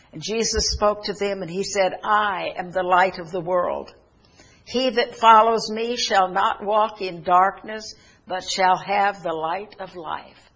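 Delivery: preacher declaring scripture; emphatic preaching. Real, not acted. Preaches scripture at raised force.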